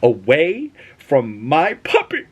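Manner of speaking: half-joking warning to a thug to keep off the puppy; mock protective anger. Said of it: "I was like".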